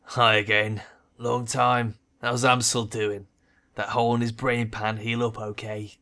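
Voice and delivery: mocking, cheerful jab; smirking taunt. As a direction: taunt with a grin. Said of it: "his lips curl into an instant smile".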